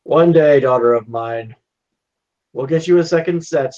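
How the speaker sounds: lightly acted fatherly vow; a hint of a solemn, doting dad; earnest father promising. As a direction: promise your daughter better days, a touch theatrical. Father promises poor daughter clothes.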